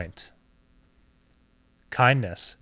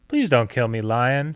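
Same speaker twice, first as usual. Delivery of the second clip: tiny squeaky critter; 4 dB louder than usual. Acted. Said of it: "squeaked the mouse".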